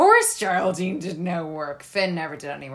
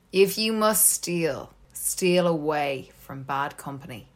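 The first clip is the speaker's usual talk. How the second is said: grand theatrical recital, slow and dramatic; hammy stage actor. Shown as a demonstration. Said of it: "I do it in my acting voice".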